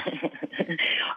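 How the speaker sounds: soft, breathy chuckle before answering; amused little laugh at the question; quiet laugh under the breath; short chuckle. Real, not acted. Amused by Zlatan comparison.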